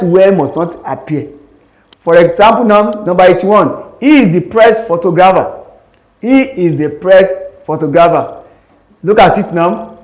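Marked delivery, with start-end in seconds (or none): 4.0-5.6 "he" leaned on, then falling away; stress on HE. Shown as a demonstration. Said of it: "The word he is stressed". 6.2-8.4 "He" set apart, rest falling away; stress on HE. Shown as a demonstration. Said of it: "The word he is stressed".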